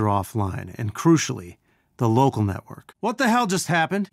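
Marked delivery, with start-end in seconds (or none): 3.0-4.1 high-pitched startled question; sudden raised-pitch surprise; startled reaction. Acted. Startled reaction in game mission.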